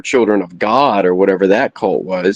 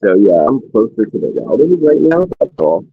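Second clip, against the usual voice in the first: muffled mic; 2 semitones higher than usual. Real, not acted. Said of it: "It's a bit muffled".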